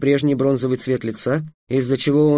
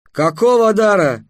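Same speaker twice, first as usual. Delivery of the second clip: stunned question; 6 semitones higher, 4 dB louder than usual. A narrator's reading. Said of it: "остолбенел самаршанец".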